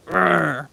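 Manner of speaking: short imitated angry dog noise; imitated dog growl. Streamer showing how the dog reacted, imitated growl. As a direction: growl like a dog going mental. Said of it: "I have never seen him so, like".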